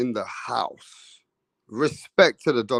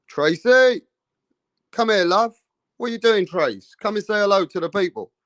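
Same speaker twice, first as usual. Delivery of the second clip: raised, higher call across the room; 5 semitones higher than usual. Real, not acted. Streamer calling Tracy over to say hello, raised call. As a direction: call her over, pitched up.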